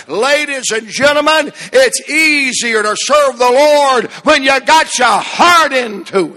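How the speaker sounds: driving sermon cadence building to a shout; impassioned preaching. Real, not acted. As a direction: preach with mounting force, leaning on key words. Preacher builds to full force.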